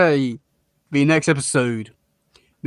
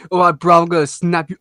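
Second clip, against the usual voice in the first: put-on Essex hard man accent; 4 dB louder than usual. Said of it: "a proper Essex Leatherhead".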